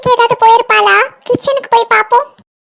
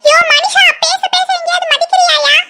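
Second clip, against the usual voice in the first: exasperated scolding; 5 semitones higher than usual. Acted. Wife scolds dismissive husband.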